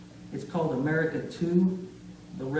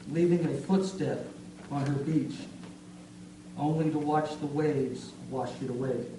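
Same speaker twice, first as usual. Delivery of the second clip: poem reading. Acted. Reads a serious poem.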